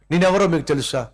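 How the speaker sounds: mock outrage: do you know who I am; retold angry shouting. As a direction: play the offended VIP shouting at the gate. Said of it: "అతను ఇంకా గట్టిగా అరుస్తూ".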